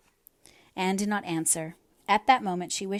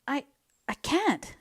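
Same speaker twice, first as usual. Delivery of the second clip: high, broken miserable refusal; the words catch high in her throat; 7 semitones higher, slower than usual. A narrator's reading. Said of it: "said Anne miserably".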